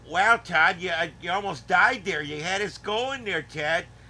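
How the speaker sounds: put-on thick Chicago accent. Retelling a favorite comedy sketch, quoting a character: thick Chicago accent. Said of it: "people do the Chicago accent".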